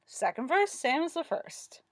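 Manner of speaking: high chant, slowing at the end; sing-song recital. A narrator's reading. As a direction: chant it like a playground rhyme. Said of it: "recited in a sing-song".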